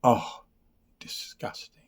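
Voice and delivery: whispered, grossed-out aside; disgusted whisper. Real, not acted. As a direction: breathe it out in distaste. Reacting to the mouthwash taste.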